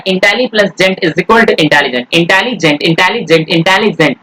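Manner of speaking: slow, splitting intelli plus gent; slowly dictating the word parts; slow breakdown. Shown as a demonstration. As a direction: lay out each part deliberately for the class. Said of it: "word break भी हो रहा है".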